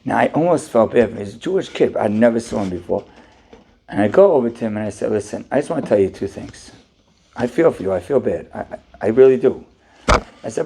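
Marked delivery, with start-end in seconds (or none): 5.1-9.6 sympathetic. Retold or imitated. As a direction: comfort him gently. Rabbi consoles the upset man.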